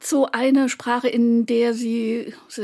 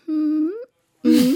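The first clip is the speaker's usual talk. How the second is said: imitated hums; 4 semitones higher than usual. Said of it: "sondern sie arbeiten sehr viel mit".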